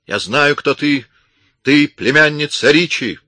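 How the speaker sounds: high, loud accusing yell, stress on ты; shouting accusation. A narrator's reading. Armed woman exposing the intruder, shouting. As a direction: hurl the accusation. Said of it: "закричала она".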